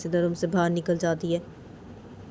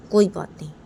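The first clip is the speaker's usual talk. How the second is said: loud angry koi baat nahin; loud retort; 6 dB louder than usual. Acted. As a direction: punch it out louder. Father shouts during quarrel.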